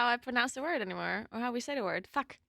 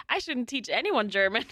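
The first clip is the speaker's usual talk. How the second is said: self-deprecating line with laughter round it; laughing; 2 semitones higher than usual. Real, not acted. Streamer answers request to teach German, laughing. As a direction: laugh as you admit it.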